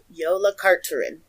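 "Yola Carterin" said carefully, falling at the end; careful pronunciation. Shown as a demonstration. Host repeats the learned name "Yola Carterin" for co-host, carefully. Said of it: "say it slowly because I did learn how to pronounce".

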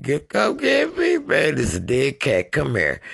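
high, loud cry for rescue; mock panicked yell. Storyteller finding a dead cat, mock panicked yell.

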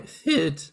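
"Food" with a long oo vowel, in place of feud. Shown as a demonstration. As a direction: say "Food" like the word food. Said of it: "instead of feud".

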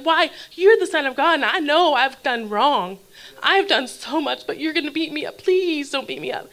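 acted plea, partly slowed and stretched; begging. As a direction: beg not to be hurt. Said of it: "begging and pleading with God".

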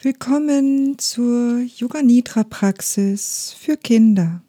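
unhurried Yoga Nidra guidance with long pauses between phrases; guided meditation. Acted. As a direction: guide children calmly through relaxing, leaving space after each instruction. Leads children's Yoga Nidra. (ruhige Anleitung einer geführten Kindermeditation)

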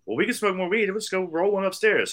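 high-pitched eager suggestion; imitated woman. Woman inviting him upstairs to smoke, high imitated voice.

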